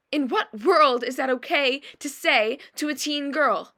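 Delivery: indignant disbelief, leaning on key words. Acted. Model protesting remarks made to a teen girl, indignant.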